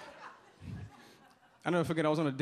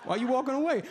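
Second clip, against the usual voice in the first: mock desperate calling; 8 semitones higher than usual. Calling after departing date.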